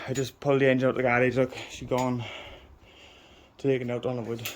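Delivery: puffing after heavy lifting; breathless, hurried words; out of breath. Real, not acted. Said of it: "I'm a bit out of breath".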